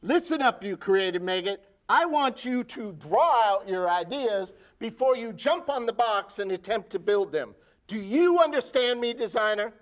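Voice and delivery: drill sergeant. Acted. Sergeant berates design recruit.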